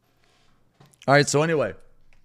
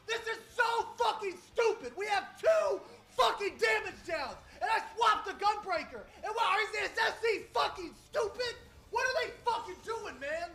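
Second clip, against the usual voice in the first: 1 laughing rant; 5 semitones higher than usual. Real, not acted. Ranting, laughing in disbelief.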